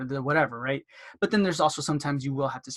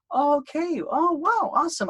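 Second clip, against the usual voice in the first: much higher, louder gushing wow; bright mock delight; 12 semitones higher, 4 dB louder than usual. Dentist gushing to the patient, much higher and louder. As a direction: gush over the answer like it's great news.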